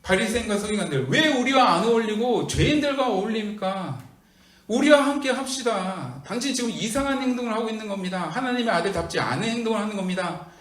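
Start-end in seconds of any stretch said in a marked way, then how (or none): 1.1-10.5 lightly acted self-righteous reproach; the Pharisees challenging Jesus, mildly voiced; mock indignant Pharisees. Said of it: "이렇게 따지고 있는".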